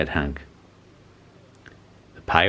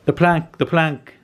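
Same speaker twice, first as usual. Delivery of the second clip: much higher chanted yell; eager yell; 9 semitones higher than usual. A narrator's reading. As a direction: yell it out, egging each other on. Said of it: "yelled Ben Buckle and Percy Patch".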